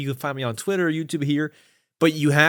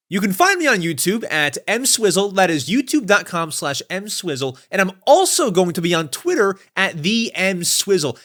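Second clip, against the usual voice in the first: raised-pitch YouTube channel plug, talking proper; half-hearted intro voice; 4 semitones higher than usual. Shown as a demonstration. Podcast host demonstrates an intro voice for the guest, talking proper. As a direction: attempt an intro voice, properly spoken. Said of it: "It's not a good intro voice. It's kinda like just me talking proper".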